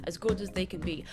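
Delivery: breathy whisper under the breath; a soft whispered wish; whispered aside. Real, not acted. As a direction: whisper the last bit gently. Trailing off softly.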